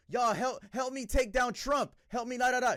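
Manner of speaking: high, loud mocking imitation of her post; mocking the teacher. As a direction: parody her frantic call to action. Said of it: "She was posting with her face. Like this".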